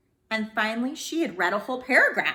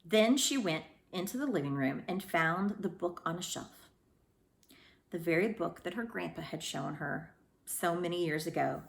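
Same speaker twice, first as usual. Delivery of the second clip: usual speaking voice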